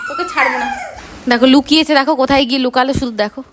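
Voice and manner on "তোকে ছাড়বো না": তোকে ছাড়বো না in a much higher squeak; squeaky mock threat. Mother playfully threatens her child in a sudden high squeak. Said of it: "repeats the threat".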